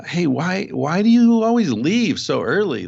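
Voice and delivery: mock bewildered tribesman; puzzled visitor. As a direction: ask it as if it makes no sense. Tribesmen question the producer.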